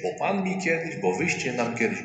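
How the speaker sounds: high, whiny reproachful quote; mock reproach. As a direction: throw the old grudge back, squeakily. (piskliwy, przedrzeźniany wyrzut)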